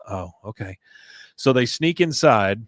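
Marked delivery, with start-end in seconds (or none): 0.1-0.8 meek agreement. Retold or imitated. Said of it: "He goes".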